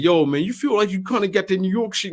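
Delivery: a hint of a curious friend; mock buddy voice. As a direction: toss off a mild imitation of a pal. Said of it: "somebody's like".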